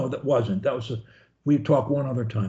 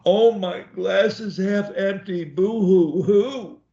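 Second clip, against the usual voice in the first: mock sad whine; 3 semitones higher, slower than usual. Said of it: "Or I can look at it like".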